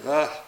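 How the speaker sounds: a winded gasp for air; breathless gasp. Retold or imitated. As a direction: gasp like you just stopped running. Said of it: "and I'm out of breath".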